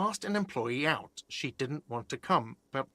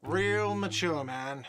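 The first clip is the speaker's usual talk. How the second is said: whiny shout; slower than usual. Acted. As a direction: call out "Real mature" in a slow whiny taunt. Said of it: "a whiny voice shouts".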